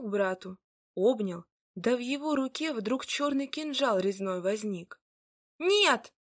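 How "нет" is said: horrified scream. A narrator's reading. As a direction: scream to stop it. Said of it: "закричала Марья".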